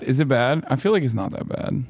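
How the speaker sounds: ordinary talk, nothing marked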